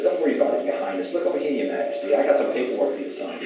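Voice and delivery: lightly mock a would-be king; playful, feigned deference to royalty. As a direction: humour him with mock-royal courtesy. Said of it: "they were mocking him".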